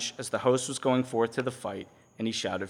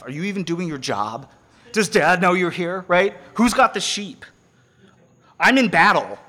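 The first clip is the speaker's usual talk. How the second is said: put-on scolding older brother; 5 dB louder than usual. Voicing Eliab scolding David.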